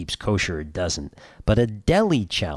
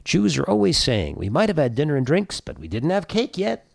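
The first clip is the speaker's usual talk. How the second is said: Jackie Mason impression; 5 semitones higher than usual. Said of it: "As Jackie Mason once put it".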